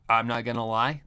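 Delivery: ordinary delivery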